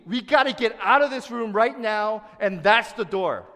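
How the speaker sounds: loud, urgent call to get out now; urgent shout. Pretend. Preacher urging the room to flee, loud urgent shout. Urgent warning in imagined emergency.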